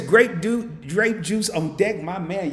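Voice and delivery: loud, high shout of the message; excited read-out. Real, not acted. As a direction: hype the chat line up, slowly. Hyped reading of a chat message.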